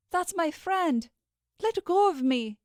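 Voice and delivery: high, loud, pleading to be let go; desperate plea. Acted. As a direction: fight to get free, desperate. Struggling against being held back.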